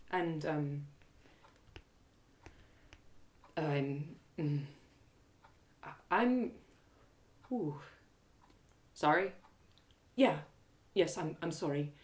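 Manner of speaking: soft, halting awkward sorry; hesitant apology. Acted. Trinia haltingly apologizing to her companion, soft and awkward. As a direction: struggle to get the words out.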